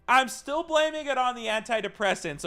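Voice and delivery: laughing while making an excuse; laughing through it. Real, not acted. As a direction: giggle out the excuse. Laughing at his own excuse.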